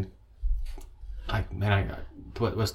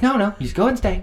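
much higher mock woman's plea; 11 semitones higher, 5 dB louder than usual. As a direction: squeak out a high pleading woman. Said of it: "She's like".

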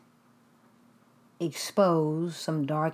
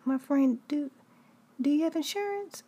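dentist breaking news; 11 semitones higher than usual. Retold or imitated. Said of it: "She said".

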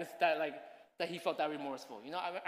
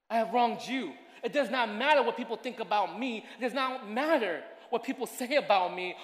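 louder, heartfelt confession to God; earnest prayer; 2 semitones higher, 6 dB louder than usual. Pretend. A sinner confessing to God, earnest and pleading. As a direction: pray it like you truly mean it. Model prayer of true repentance.

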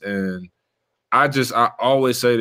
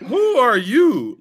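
laughing disbelief; 12 semitones higher, much slower than usual. Retold or imitated. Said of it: "I looked at him like".

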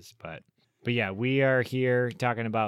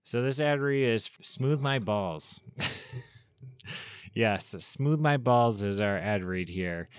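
trying not to laugh. Real, not acted. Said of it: "try not to laugh".

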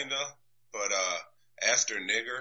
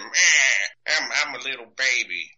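mock crybaby whine; 4 semitones higher than usual. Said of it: "the rest is just him".

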